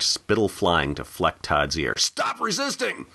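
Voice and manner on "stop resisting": shouted command. Acted. Cop restraining a struggling man.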